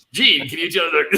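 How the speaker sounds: loud, hammed-up demon voice; mock demonic delivery, pushed hard; guttural demon. Shown as a demonstration. Co-host joking about Jean's line, mock guttural demon. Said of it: "it should be like the most guttural demon".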